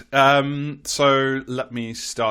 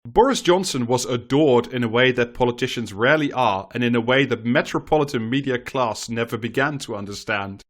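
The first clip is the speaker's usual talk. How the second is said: lively, rhetorical reading voice; column read-aloud. Acted. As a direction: read the column out with swooping emphasis. Reads a newspaper column aloud.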